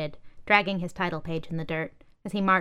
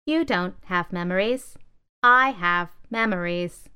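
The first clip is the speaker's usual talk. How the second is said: louder, slow boast of a scoff; scoffing laptop; 5 dB louder than usual. Acted. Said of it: "scoffed a laptop".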